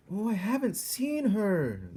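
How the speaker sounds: high, loud shout. A narrator's reading. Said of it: "Louise was shouting".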